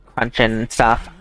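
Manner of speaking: talking with a mouthful of ice cream; eating ice cream. Real, not acted. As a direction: chew while you talk. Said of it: "if you hear me munching and crunching".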